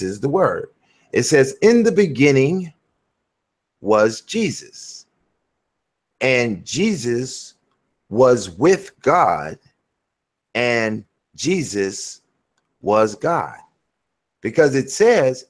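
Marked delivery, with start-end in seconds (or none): 1.6-13.6 each phrase slow, with long pauses; slow, deliberate reading. Shown as a demonstration. Preacher swapping Jesus into the verse for a listener, slow deliberate reading. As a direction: spell the verse out slowly, piece by piece. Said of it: "I gotta read this slow".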